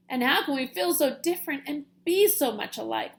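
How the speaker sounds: wondering. Acted. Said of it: "wondered Pip".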